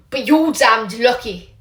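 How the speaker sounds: grim warning. Acted. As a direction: lean on every word. Angry teacher stresses luck.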